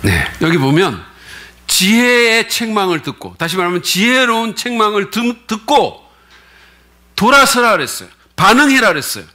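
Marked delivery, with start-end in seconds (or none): 1.7-8.9 emphatic preaching. Real, not acted. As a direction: preach it with rising fervour. Preacher stressing scripture point. (높고 느리게 힘주어 설교하듯)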